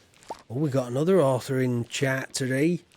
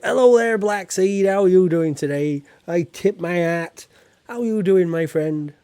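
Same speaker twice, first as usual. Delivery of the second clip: loud, higher called-out hello; hearty greeting; 4 semitones higher, 7 dB louder than usual. Real, not acted. Streamer welcoming Black Seed to the chat, loud and hearty. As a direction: hail a friend arriving at the farm. Calling a greeting to arriving viewer.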